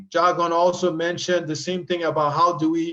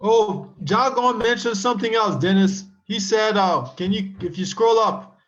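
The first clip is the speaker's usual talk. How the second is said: eager, higher-pitched interjection; excited; 4 semitones higher than usual. Real, not acted. Co-host eagerly cutting in about a viewer's comment, excited. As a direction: jump in excitedly, pitch lifted. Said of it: "I just get excited about this".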